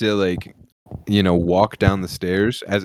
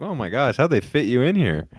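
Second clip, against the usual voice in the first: mocking the stranger; 7 semitones higher than usual. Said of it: "he was like".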